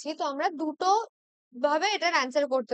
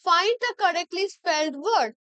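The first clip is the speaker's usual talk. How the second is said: slow question reading; much slower than usual. Shown as a demonstration. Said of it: "next কোশ্চেনে যাব".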